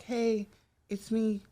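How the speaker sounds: put-on childhood self. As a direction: ask shyly small and high, like a kid phoning in. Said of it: "this is how it would start".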